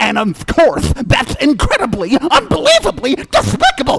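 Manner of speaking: lisping, high, loud and swooping. After someone says that Bugs Bunny fans are really Daffy Duck, reply in a Daffy Duck voice. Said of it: "are really Daffy Duck".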